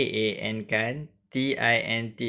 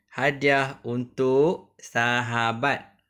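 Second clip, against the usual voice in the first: put-on slow, careful read-aloud for children; slow classroom reading voice; reading aloud to pupils; slower than usual. Shown as a demonstration. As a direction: read it out slowly so the class can follow. Teacher reads the textbook title aloud.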